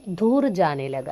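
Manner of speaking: slow, deliberate repeat of ധൂർ ജാനെ ലഗ for the class; teacher slowing down a phrase for students; repeated slowly. Shown as a demonstration. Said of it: "അങ്ങനെ".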